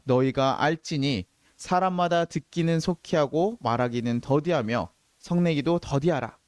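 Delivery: slow, measured verse reading; formal, unhurried Bible recitation; scripture reading. Real, not acted. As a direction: read the verse out deliberately for a congregation to follow. Reads the Bible verse aloud.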